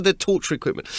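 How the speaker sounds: high, flustered blurt; panicked confession. Retold or imitated. Comedian owning up to a cop, mildly panicked. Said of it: "I panicked and told the cop".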